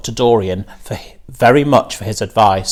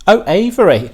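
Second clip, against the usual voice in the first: chuckling; 9 semitones higher, 4 dB louder than usual. A narrator's reading. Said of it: "chuckled Missus Arable".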